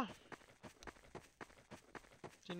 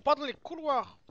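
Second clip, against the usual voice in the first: loud, higher protest; shout; 8 semitones higher, 8 dB louder than usual. Real, not acted. Streamer protesting to the game, loud and higher. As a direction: yell that you're not running. Repeating his shouted line.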